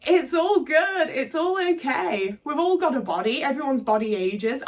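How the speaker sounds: high soothing carer voice coaxing a frail relative into the bath; sweet carer voice. Retold or imitated. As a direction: put on a bright soothing carer act. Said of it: "I was like".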